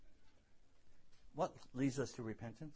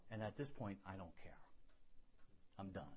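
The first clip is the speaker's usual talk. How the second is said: quiet resignation; 6 semitones lower, 11 dB quieter than usual. Retold or imitated. Retelling the moment he snapped.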